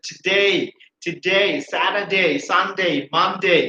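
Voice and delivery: today, Saturday, Sunday, Monday ending in a gliding "day"; correct "day" ending. Shown as a demonstration. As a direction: glide the end of today and Monday into "ee". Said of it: "right pronunciation of A Y".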